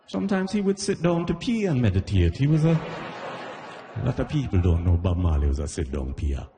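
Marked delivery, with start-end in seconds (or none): 0.1-4.6 tour guide voice. Retold or imitated. Tour guide at Marley house, reverent high voice. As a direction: keep the solemn guide act.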